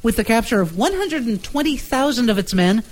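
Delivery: dramatic newsreel read; vintage radio news voice; old newsreel announcer. Acted. Reads old newspaper story.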